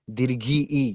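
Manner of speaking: ଦୀର୍ଘି, then the "ee" sounded by itself; isolated i sound. Shown as a demonstration. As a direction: echo the last vowel of ଦୀର୍ଘି as a separate ଇ. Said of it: "ମଝିରେ ଇ ଉଚ୍ଚାରଣ ହଉଛି". (ଦୀର୍ଘି କହି "ଇ" କୁ ଅଲଗା ଉଚ୍ଚାରଣ)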